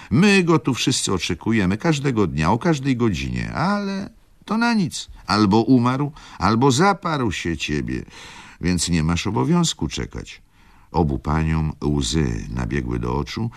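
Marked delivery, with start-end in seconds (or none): 0.1-10.4 high, loud impassioned mother; with passion. Acted. Mother urging her daughter to stop waiting, high and loud. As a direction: pour it out in agitated grief. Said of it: "ciągnęła matka z uniesieniem".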